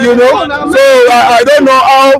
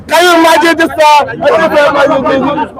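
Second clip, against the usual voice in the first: raised, indignant shouting at the rival guest; angry shouting; 3 semitones higher than usual. Real, not acted. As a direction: hammer each point home, outraged. Heated TV debate rant.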